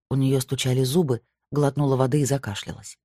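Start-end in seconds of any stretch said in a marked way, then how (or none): none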